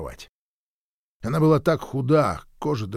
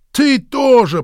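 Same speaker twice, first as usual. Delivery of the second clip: sharp, much higher and louder shout; angry shout; 12 semitones higher, 9 dB louder, slower than usual. A narrator's reading. Hank jabs a finger at Mary, shouting. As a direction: nail her with the words. Пригвоздил я её пальцем.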